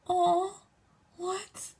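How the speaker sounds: high, held "oh", then a small high "what"; acted flattered surprise. Girl asked for photos, high flattered surprise.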